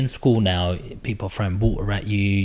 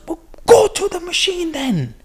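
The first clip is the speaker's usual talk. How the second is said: high, pushed-up jobsworth voice, louder; mock dismissive clerk; 4 dB louder than usual. Tourist imitating the station clerk sending her away, high mock voice. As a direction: toss it off like a bored official.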